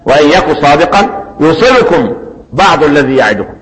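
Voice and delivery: slow, melodic tajweed chant of the verse; slow measured Quranic chant; Quran recitation. Acted. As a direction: draw each word out as in recitation.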